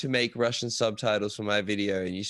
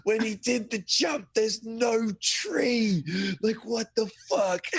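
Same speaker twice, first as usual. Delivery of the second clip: squeaky high incredulous voice; high-pitched disbelief; 11 semitones higher, much slower than usual. Retold or imitated. To Marcus while hitting his arm, high squeaky disbelief. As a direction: shriek it out, stunned there's no tree. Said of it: "I'm like".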